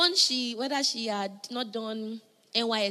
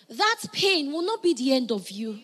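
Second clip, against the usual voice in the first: stronger, more emphatic repeat; louder repeat; 4 dB louder than usual. Shown as a demonstration. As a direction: press it home the second time. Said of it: "I'm gonna say it again".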